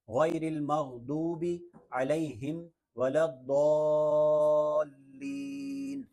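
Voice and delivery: slow, measured Arabic recitation with long vowels; Quran recitation. Shown as a demonstration. Teacher has learners hear the full surah, slow recitation. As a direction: recite carefully, sustaining the final long syllable. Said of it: "مکمل سورہ فاتحہ سماعت کر لیجئے".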